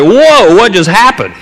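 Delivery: high, startled "Whoa" then confused; shocked kids. Retold or imitated. Cousins stunned after the gunshot, startled surprise. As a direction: gasp it out, caught off guard. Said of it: "And we're like".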